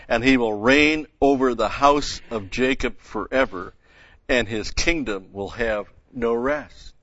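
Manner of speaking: measured, declaimed Bible verses; scripture reading. Acted. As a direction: read out the angel's announcement with steady emphasis. Reads the angel's announcement from Luke.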